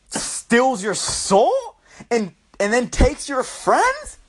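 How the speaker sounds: slow, drawn-out mock disbelief; incredulous. Real, not acted. Quoting a depression article, slow incredulous tone. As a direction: spell the absurd claim out slowly.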